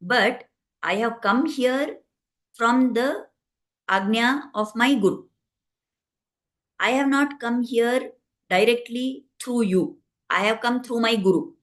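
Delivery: measured retold answer with deliberate pauses; calm reply. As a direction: answer the Lord calmly but firmly, unhurried. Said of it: "very calmly, he smiled and he said".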